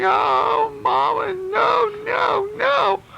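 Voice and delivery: put-on very high shouted child's wail; storyteller shrieking as a desperate boy. A narrator's reading. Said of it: "Hunter's going".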